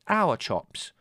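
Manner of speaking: high, loud correction; indignant interruption. A narrator's reading. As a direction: cut in crossly. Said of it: "Margot interrupted".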